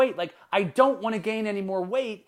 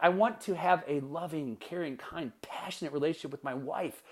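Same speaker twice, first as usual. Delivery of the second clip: tender wish; 4 dB quieter than usual. Acted. Husband stating what he wants with his wife, tender and soft. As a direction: say it softly and sincerely, easing down.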